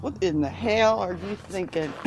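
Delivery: mock-incredulous quote; understated mock disbelief at normal volume; imitating disbelief. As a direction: imitate a baffled dinner guest, mildly. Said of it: "they'll look at me like".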